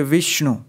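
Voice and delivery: विष्णु with the वि pressed harder; stress on first syllable. Shown as a demonstration. Teacher showing stress on वि in विष्णु. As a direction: lean on वि in विष्णु. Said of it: "तो वी पर अधिक बल देंगे".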